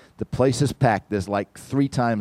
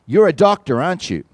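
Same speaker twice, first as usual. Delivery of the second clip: put-on insistent old lady; 6 semitones higher, 6 dB louder than usual.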